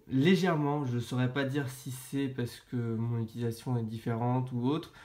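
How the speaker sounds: stuffy voice with a blocked nose and sore throat. Real, not acted. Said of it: "j'ai le nez bouché et mal à la gorge".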